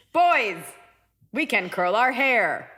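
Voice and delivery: mock robot, drawn out; deliberate robot voice; girl robot. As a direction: imitate a robot savoring each word. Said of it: "it's like a girl robot".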